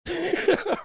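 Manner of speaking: short high-pitched scoffing laugh; a quick squeaky laugh at the chat; high mocking laugh. Real, not acted.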